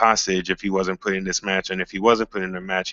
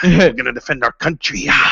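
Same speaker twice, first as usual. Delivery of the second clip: much higher, loud preaching shout; preacher impression; 5 semitones higher, 5 dB louder than usual. Imitating Big E's preacher character to his co-host, loud and high. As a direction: whoop it up like a fired-up preacher. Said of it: "preacher character from Coming to America".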